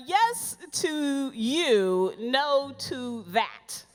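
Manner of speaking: drawn-out, very slow quote; slow retold publishers. Publishers rejecting her book, slow drawn-out. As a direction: spell out the rejection slowly. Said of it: "they kept saying".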